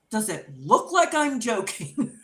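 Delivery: loud, indignant comeback, retold; exasperated retort. Wife answers husband who thinks she is joking, exasperated.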